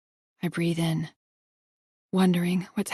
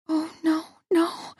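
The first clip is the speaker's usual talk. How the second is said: breathless; 10 semitones higher, much slower than usual. A narrator's reading. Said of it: "trying to catch my breath".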